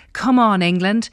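cheering. Retold or imitated. Presenter reading fan email.

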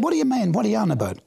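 retold shock at a strange phone call; baffled disbelief. To his brother on the phone, baffled disbelief. Brother says he's born again.

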